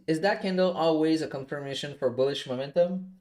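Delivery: ordinary delivery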